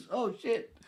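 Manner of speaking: a high, loud startled curse; real surprise as the verdict lands; surprised. Real, not acted. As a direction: caught off guard, blurt it out high. Reacting to being told dumb.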